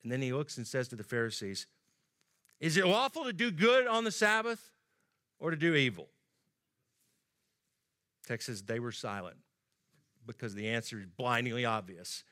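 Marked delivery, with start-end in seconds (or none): 2.6-6.1 challenging question. Retold or imitated. Jesus challenging the Pharisees, pointed and higher. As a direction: put it hard to the Pharisees.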